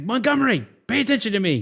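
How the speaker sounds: high, loud demanding call; mock yell. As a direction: shout down for attention from way up high. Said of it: "he's climbing up there yelling".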